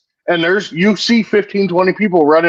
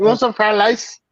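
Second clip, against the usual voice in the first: higher-pitched mock Asian accent; 5 semitones higher than usual. Co-host repeating the fried rice gag, mock Asian accent.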